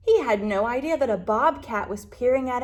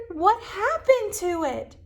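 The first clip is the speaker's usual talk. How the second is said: much higher, eager little voice; anxious question; 9 semitones higher, 4 dB louder than usual. Acted. Lizard asks the frog about his tail, high and eager. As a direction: ask in high worried excitement.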